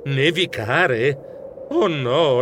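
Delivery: very slow, drawn-out "Nevicare?" in dismay; dismayed disbelief. Acted. Mouse realising snow may block his train, aghast. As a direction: stretch "Nevicare?" as the dread sinks in.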